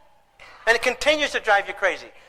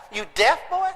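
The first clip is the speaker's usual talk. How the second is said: put-on puzzled kid echo. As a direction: repeat it back, bewildered. Son puzzled echo of dad.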